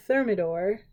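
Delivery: "thermidor" as THUR-mih-dor, rising; spelling pronunciation. Shown as a demonstration. Trying a French month name, "thermidor" read as THUR-mih-dor. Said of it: "that's literally how it's spelled".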